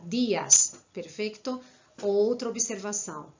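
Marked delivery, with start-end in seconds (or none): 0.0-0.7 "Dias." said with the tongue on the palate for the I. Shown as a demonstration. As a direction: say "Dias." slowly with a clear I. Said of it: "pronunciada com a língua no céu da boca".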